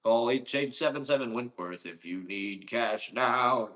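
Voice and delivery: lightly voiced cash-now ad announcer; mock TV ad. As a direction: read it like a cheesy lawyer commercial. Parodies a TV cash ad.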